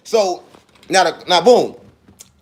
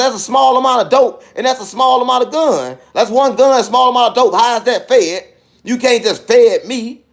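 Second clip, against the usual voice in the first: higher-pitched retold argument; indignant protest; 3 semitones higher than usual. Man disputing a federal charge with officers, indignant protest. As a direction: plead your case in disbelief, point by point.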